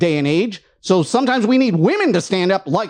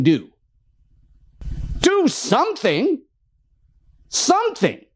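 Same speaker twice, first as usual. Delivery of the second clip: heated, higher-pitched ranting; frustrated rant; 3 semitones higher than usual. Real, not acted. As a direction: push the frustration into every line. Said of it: "you can tell that I'm frustrated".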